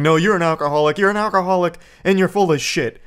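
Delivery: repeating it, mildly mock heated; a touch of crazed insistence; mock rant. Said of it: "Ben just keeps going crazier".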